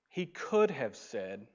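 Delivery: slow, leaning on "could"; stress on could. Shown as a demonstration. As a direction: land on "could" in "He could have said". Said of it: "switch the word from should to could".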